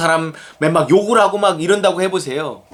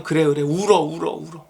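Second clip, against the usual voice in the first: acted motherly comfort. Preacher voices a mother letting her daughter cry, consoling. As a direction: soothe and give permission, trailing into a hush.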